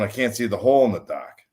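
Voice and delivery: lightly imitated South Boston accent; thick Boston accent. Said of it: "'cause he has a Southern accent".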